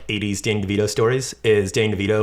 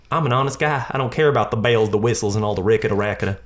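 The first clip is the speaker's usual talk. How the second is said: put-on Southern-accented Sheldon; faster than usual. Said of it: "keep making him Southern".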